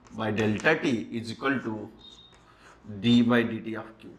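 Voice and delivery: very slow, each term spaced out for notes; slow, deliberate formula read-out; slow dictation. Shown as a demonstration. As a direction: dictate it slowly so students can write.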